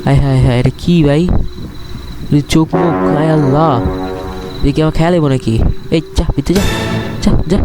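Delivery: scared horror game streamer. Real, not acted. Creature appears, he panics.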